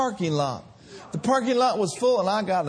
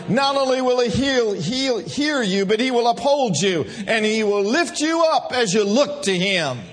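full-force Sunday preaching. Acted. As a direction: preach it to the rafters. Preaching the psalm.

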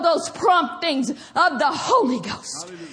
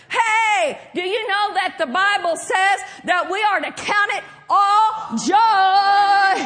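insistent prompting; 3 semitones higher than usual. Acted. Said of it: "Holy Ghost prompts you again and says".

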